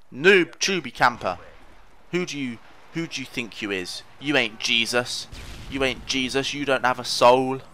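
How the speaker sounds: cheeky trash talk; mocking taunt. Real, not acted. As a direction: sneer at the camper. Taunting enemy who noob-tubed him.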